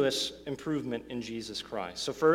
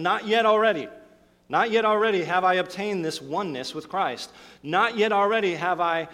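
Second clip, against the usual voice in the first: louder, higher insistence on "Not yet"; emphatic declaration; 4 semitones higher, 5 dB louder than usual. Retold or imitated. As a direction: proclaim it like the apostle correcting a misunderstanding. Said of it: "he begins emphatically by saying".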